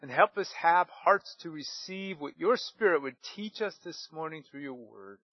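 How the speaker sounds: prayer. Real, not acted. Pastor praying over the congregation, gently hushed.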